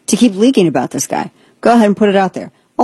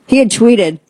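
normal talking voice

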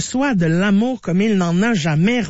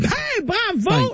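high, drawn-out bravo; exaggerated, stretched congratulations; mock congratulation; 11 semitones higher, much slower than usual. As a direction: cheer the answer in a long high swoop. Congratulates co-host on correct sum.

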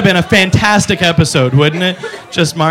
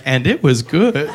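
slow, satisfied pronouncement; slow approving; slower than usual. Retold or imitated. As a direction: savor it, slow and pleased. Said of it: "I'm like".

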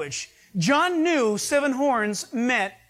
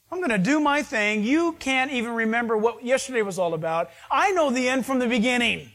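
paraphrasing God; faster than usual. Retold or imitated. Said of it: "I like when he talks like that".

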